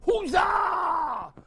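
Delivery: loud high huzzah shout; cheer. Acted. Men cheering Sybil's arrival, loud shout. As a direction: cheer it out like a crowd. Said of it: "what they yelled?".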